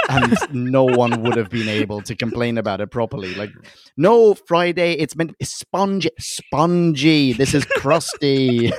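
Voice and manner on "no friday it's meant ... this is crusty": mock complaint. Complaining to Friday about the sponge cake, mock exasperated. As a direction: correct a hopeless baker with playful exasperation.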